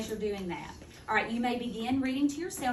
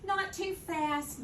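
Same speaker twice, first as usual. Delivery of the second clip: slow demo; 5 semitones higher, slower than usual. Shown as a demonstration. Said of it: "they read at a good rate".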